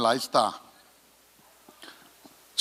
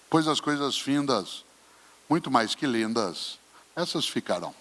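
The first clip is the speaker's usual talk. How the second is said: poem recitation. Shown as a demonstration. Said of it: "quando ele diz".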